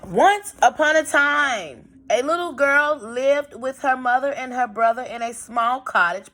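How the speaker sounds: put-on storybook read-aloud for young pupils; gently paced classroom story reading; reading to children. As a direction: read it like a picture book to a class. Teacher reads story aloud to class.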